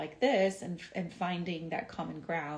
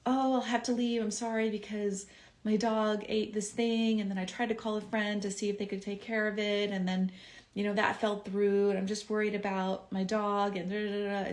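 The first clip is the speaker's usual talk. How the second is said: mildly hammed-up apologetic excuse-making; over-explaining; 2 semitones higher than usual. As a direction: ramble on justifying yourself, voice slightly lifted. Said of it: "Also, over-explaining".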